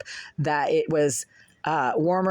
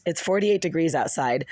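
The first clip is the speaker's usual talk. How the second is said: rough, hoarse and fading. Real, not acted. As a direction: speak through a hoarse throat. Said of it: "My voice is hoarse and I'm losing it".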